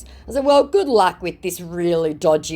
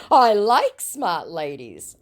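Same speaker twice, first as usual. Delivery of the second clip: mock scammer flattery; 6 semitones higher, much slower than usual. Reading scammer's flattery aloud.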